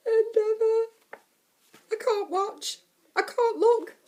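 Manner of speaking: high, loud tense excitement; excited. Real, not acted. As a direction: squeal with suspense. Excited reaction, can't watch.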